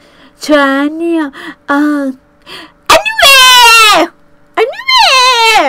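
high, loud mock crying voice; hammed-up weepy imitation of her English. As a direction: wail the English like a sobbing imitation. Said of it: "มันพูดภาษาอังกฤษแบบว่า".

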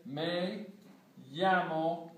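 "llamo" said with a Y sound, "yamo"; Spanish double L. Shown as a demonstration. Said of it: "that's how a double L sounds in Spanish".

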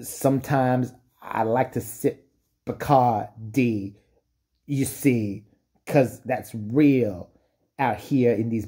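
a lightly voiced wannabe rapper, slow and drawn out; mock rapper. Rich kid's mock rap about his life, slow wannabe drawl. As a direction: play a rich kid posing as a rapper, slowly. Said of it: "What are you rapping about?".

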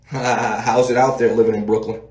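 a hint of a smooth interviewer; laid-back mock interviewer voice; friendly interviewer. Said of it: "So he's like".

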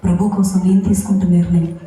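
firm, earnest speech into a mic; a resolved declaration to the crowd, lightly re-enacted; retold public address. Widow addresses the mourners at the funeral, a firm retold speech. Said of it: "mic తీసుకుని ఒకటే చెప్పాను".

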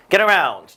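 "around" punched after a light "Get"; stress on "around". Shown as a demonstration. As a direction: lean hard on the second word, "around". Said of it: "뒤에 강세 주셔야 돼요".

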